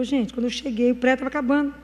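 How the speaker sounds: ordinary talk, nothing marked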